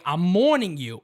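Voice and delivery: "warning" coming out as "morning" in New York Italian; New York Italian accent. Retold or imitated. Host quoting his father, heavy New York Italian accent. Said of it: "New York Italian accent".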